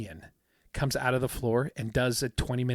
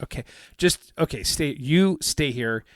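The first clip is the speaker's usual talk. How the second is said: mock irritated; 3 semitones higher, 6 dB louder than usual. Magician to bungling volunteer on stage, irritated. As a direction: act out losing patience with a hopeless volunteer. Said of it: "this guy's getting really irritated".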